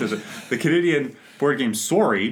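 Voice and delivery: put-on Canadian accent. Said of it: "Are you gonna do that the whole episode?".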